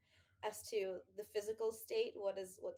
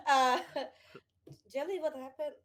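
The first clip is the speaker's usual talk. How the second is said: put-on Russian accent; 4 semitones higher, 8 dB louder than usual. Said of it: "how do I do Russian accent?".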